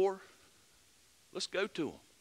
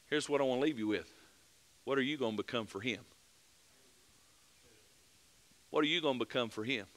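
quiet challenge; 3 semitones lower, 6 dB quieter, faster than usual. Acted. Closing challenge to the church.

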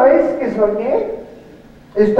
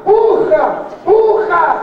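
mock yelling push; 5 semitones higher, slower than usual. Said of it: "una voz me gritaba".

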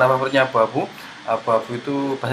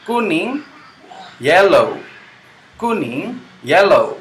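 Kuning called high, yellow louder; bright up-down drill for children; teacher drill; 5 semitones higher, 3 dB louder, slower than usual. Shown as a demonstration.

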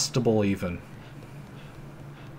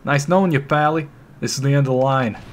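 louder, higher mocking taunt; fight taunt; 3 semitones higher, 5 dB louder than usual. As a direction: sneer before the brawl. Thug starting fight.

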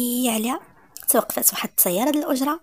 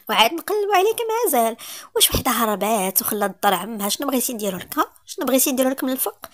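sarcastic. Acted. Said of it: "سعاد بسخرية".

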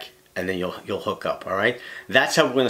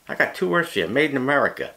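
higher, punchy ad-slogan delivery; mock slogan voice; 5 semitones higher than usual. Angler breaks into a mock slogan for viewers, higher pitched. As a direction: sell it like a cheesy patriotic ad line. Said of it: "I just sound like I was gonna say that".

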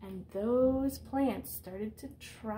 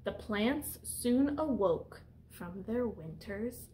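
picture-book read-aloud voice; reading to children. Acted. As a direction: read it out to the class like a storyteller. Teacher reads picture book aloud.

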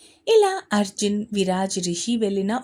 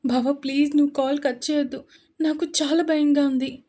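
crying; 3 semitones higher than usual. Acted. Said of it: "ఏడుస్తూ".

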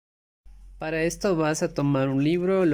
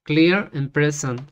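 slow, measured repeat after a model; deliberate Spanish-accented English dictation; careful pronunciation practice; 3 dB louder, slower than usual. Shown as a demonstration. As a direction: dictate it slowly, word by word. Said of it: "volverle a dictar hasta que me salga bien la pronunciación".

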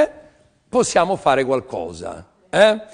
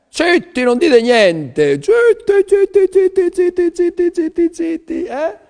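mock shushing; 8 dB louder than usual. Hushing audience, silence of lambs joke.

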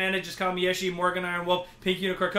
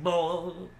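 drawn-out comic "bwoing"; silly stretched sound effect; imitated boing noise. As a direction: mimic a cartoon spring noise. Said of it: "It makes that noise".

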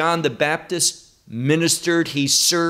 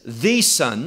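"the" said as a stressed "thee" before "Son"; 5 semitones lower than usual. Retold or imitated. Preacher explaining Peter's exact words, stress on "the". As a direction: punch "the" to mean the only one. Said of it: "Not a son of many different sons".

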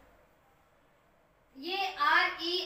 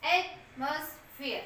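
slow model word; much slower than usual. Shown as a demonstration. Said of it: "teacher models the word".

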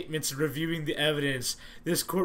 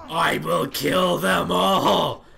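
slow menacing shout; 4 dB louder, much slower than usual. Acted. Character rampaging out of control.

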